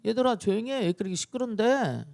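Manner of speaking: acted everyday rebuke; matter-of-fact scolding. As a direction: simply hush the noisy children. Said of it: "그냥".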